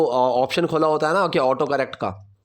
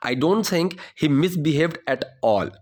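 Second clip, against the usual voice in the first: slow model sentence; much slower than usual. Shown as a demonstration. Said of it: "teacher models the sentence".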